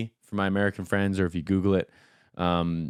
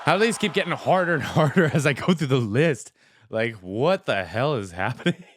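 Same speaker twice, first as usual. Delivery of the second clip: a bit higher, laughing disbelief; overwhelmed; 4 semitones higher than usual. Real, not acted. Vlogger overwhelmed by the song, laughing in disbelief. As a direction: gush about how good it is.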